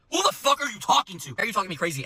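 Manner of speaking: high-pitched affronted outburst; reenacted offended challenge; indignant retort. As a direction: fire back in mock outrage at a rude customer. Server's angry retort, retold.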